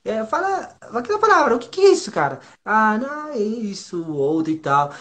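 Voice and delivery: high-pitched retold banter of friends; imitated friends. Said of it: "E foi assim". (imitando os amigos, voz bem aguda)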